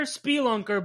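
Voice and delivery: "spelunker" with a long ee, SPEE-lunker; "spelunker" opening on a clear "spee"; odd pronunciation. Real, not acted. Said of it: "Why do you say it so weird?".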